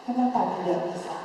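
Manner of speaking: put-on gently offering help to a child; patient, soothing questioning; calm, patient. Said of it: "sabarkan dengan tenang dan kita bilang".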